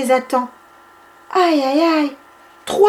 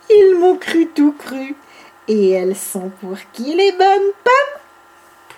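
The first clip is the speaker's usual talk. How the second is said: gleeful; 4 semitones higher than usual. Acted. Bibi gloats after trick.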